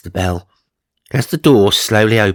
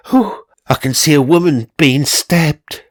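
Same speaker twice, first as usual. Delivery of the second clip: breathless, high and shocked; panting; 7 semitones higher, 4 dB louder than usual. Acted. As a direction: gasp it out after panting.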